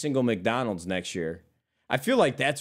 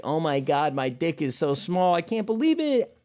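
higher, whiny mock lament that climbs to a squeal; mock whine; 6 semitones higher than usual. Streamer mocks a whiny guy to his chat, whiny voice. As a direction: play a pathetic guy moaning about himself.

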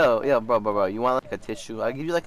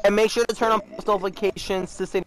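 upbeat outro read to the viewers; chirpy sign-off pitch; youtuber outro; 3 semitones higher than usual. Acted. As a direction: sell the like and subscribe.

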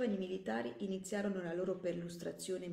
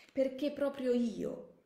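slow, higher, anguished protest; despairing young soldier, voice raised; desperate outcry; 7 semitones higher, 5 dB louder, slower than usual. Acted. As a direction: cry out slowly at your bad luck. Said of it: "più disperato che contento".

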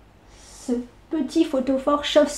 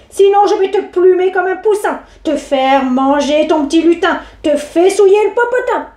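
loud, raised witch threats; a furious witch, pitched up; threatening witch; 5 semitones higher, 4 dB louder than usual. Acted. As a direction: menace the boy.

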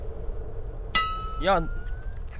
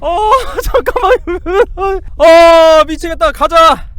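high, loud wail of nerves; real fright, crying out then pushing on; panicked; 11 semitones higher, 7 dB louder, much slower than usual. Real, not acted. Scared player urging himself onward, panicked.

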